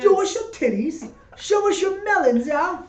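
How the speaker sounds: high, loud crowd heckling; rowdy heckler shout. Retold or imitated. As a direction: yell it like a drunk heckler.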